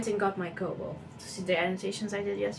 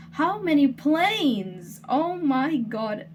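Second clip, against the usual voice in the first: slow, drawn-out exasperation; exasperated; 5 semitones higher, 6 dB louder, much slower than usual. Real, not acted. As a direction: groan it out, fed up. Plane noise interrupts.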